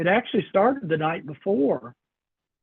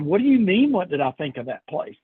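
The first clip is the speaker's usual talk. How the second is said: weird response. Retold or imitated. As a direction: imitate mom throwing the question back, punchy at first. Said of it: "Mom had a weird response".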